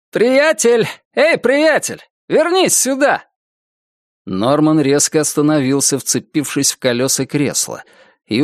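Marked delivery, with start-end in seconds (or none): 0.1-3.2 calling out. Acted. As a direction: shout after someone leaving. Cashier calls after him.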